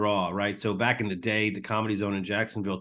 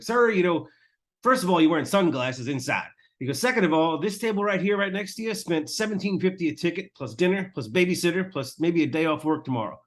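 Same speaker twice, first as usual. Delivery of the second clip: scolding a heckler; 5 semitones higher than usual. Retold or imitated. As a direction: chew out the heckler from the stage. Tim tears into a chatty heckler.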